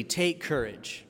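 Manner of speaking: soft, slow and understated; calm reassurance. Retold or imitated. Jesus to the frightened disciples, calm and soft. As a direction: say it softly, as quiet encouragement. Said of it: "Jesus says immediately".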